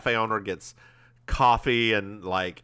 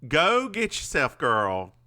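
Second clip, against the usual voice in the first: sassy advice; 2 semitones higher, slower than usual. Acted. Sassy advice on buying pie.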